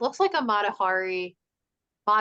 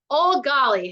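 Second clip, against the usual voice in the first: raised, higher call of a name; loudly; 6 semitones higher, 6 dB louder, slower than usual. A narrator's reading. Harriet demands old Golly's attention, loud. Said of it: "Harriet said loudly".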